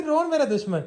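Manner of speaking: high mock-mother quote; mimicking tearful mother. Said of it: "ਰੋਈ ਤੂੰ ਆਪ ਜਾਨੀ ਹੈ". (ਮਾਂ ਦੀ ਉੱਚੀ ਸੁਰ ਵਿੱਚ ਨਕਲ)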